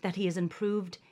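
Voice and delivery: loud, pompous gentleman reading; sexy man voice. Acted. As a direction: ham up a smug suitor. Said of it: "my sexy man voice".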